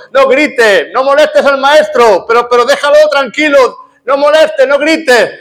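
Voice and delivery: high, pushy hushing of the crowd; crowd shouting him down. Retold or imitated. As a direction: shush the blind man sharply, voice up high. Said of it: "le gritaban al ciego Bartimeo".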